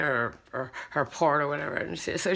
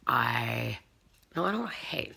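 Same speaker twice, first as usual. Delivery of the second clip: whisper; 6 semitones lower, 7 dB quieter than usual. Real, not acted. Whispered retraction.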